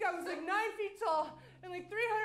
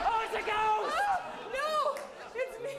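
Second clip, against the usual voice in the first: high, loud frantic cry; panicked yell; 6 semitones higher, 8 dB louder than usual. Acted. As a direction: shriek in panic, then insist. Panicked character reveal.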